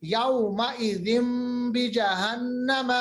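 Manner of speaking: يَوْمَئِذٍ بِجَهَنَّمَ slightly slow, tanween as m; iqlab recitation. Shown as a demonstration. Teacher recites يَوْمَئِذٍ بِجَهَنَّمَ showing iqlab. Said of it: "دو زیر کے بعد با آ رہا ہے".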